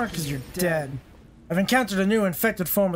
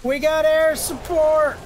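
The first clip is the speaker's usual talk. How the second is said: excited shout; 6 semitones higher, 4 dB louder, slower than usual. Acted. Excited call of air support.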